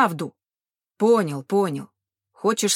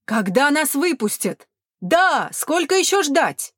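angry shouting; 5 semitones higher, 4 dB louder than usual. A narrator's reading. Crowd shouting at guards.

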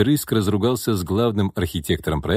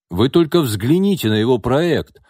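loud, raised-pitch accusation; yelling; 5 semitones higher, 5 dB louder than usual. A narrator's reading. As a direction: yell for a witness to back you up. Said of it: "заорал Левин". (возмущённо заорать)

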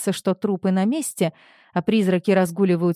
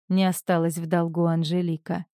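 usual speaking voice

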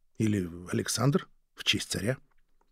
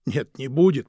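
sobbed; 2 semitones higher, 6 dB louder than usual. Acted. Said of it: "прорыдал он".

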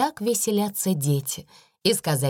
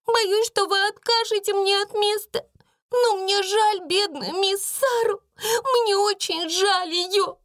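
очень высоко, медленно, со слезами; жалобно просить; плачущая Бекки. A narrator's reading. Бекки плачет о Саре. (Бекки жалеет Сару)

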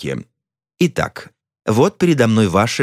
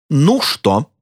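impatient; 6 semitones higher than usual. A narrator's reading. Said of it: "нетерпеливо спросил я".

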